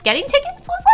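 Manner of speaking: put-on high rising valley girl uptalk. Shown as a demonstration. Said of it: "supposed to still be doing Valley Girl Redeem".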